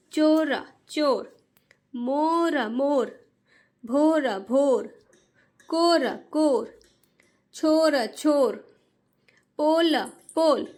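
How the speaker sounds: each word drawn out slowly, then repeated; slow reading drill. Shown as a demonstration. Teacher reads to parents the way children should, slowly. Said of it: "जिस तरीके से मैं पढ़ रही हूँ".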